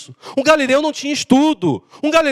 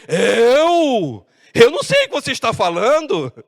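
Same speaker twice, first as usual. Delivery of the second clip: drawn-out, incredulous denial; acted wounded bewilderment; feigned ignorance. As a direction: play innocent when accused. Peter feigns ignorance when accused.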